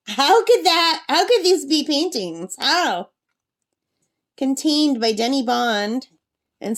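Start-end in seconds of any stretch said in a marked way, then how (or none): 0.1-3.1 amazed. Real, not acted. Amazed at photorealistic paintings.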